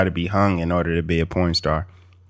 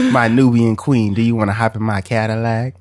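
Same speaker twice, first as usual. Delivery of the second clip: cruising in a Cadillac, mock seventies pickup, rising and louder; seventies smooth talker; 3 semitones higher, 4 dB louder than usual. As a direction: lay on the seventies charm, hammed up. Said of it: "It'd be like a seventies theme".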